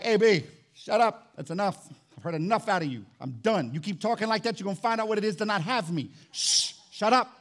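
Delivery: fed-up fatherly scolding, mildly acted; angry God. God telling the preacher he is done, mildly angry warning. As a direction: warn him firmly, pausing between orders. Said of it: "is God really that angry?".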